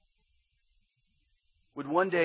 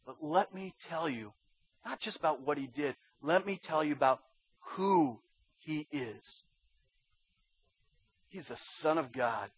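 much softer, lower, reverent testimony; hushed, solemn; 4 semitones lower, 8 dB quieter than usual. Acted. Apostle tells who he is, hushed and solemn. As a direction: drop to a grave hush, pausing between phrases.

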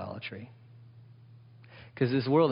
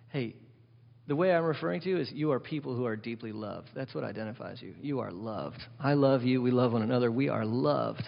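soft, tender, heartfelt telling; sincere; 3 semitones lower, 5 dB quieter than usual. Pretend. The pastor showing how real love sounds to his people, softly and sincerely. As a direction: say it gently, like you mean every word. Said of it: "what if it was real?".

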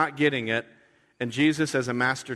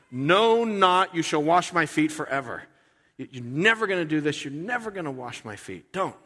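higher, loud insistent refusal; emphatic Peter; 5 semitones higher, 4 dB louder than usual. Retold or imitated. Peter insisting Jesus never wash his feet, higher and loud. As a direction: refuse flat out, high and hot. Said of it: "The Greek is very emphatic".

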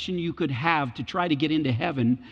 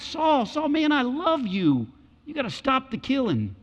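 tender plea; 7 semitones higher than usual. Retold or imitated. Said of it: "It's great affection".

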